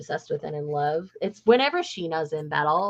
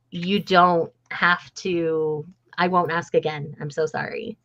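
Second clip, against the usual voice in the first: gentle apology. Retold or imitated. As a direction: ease off and apologise tenderly. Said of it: "And she's like".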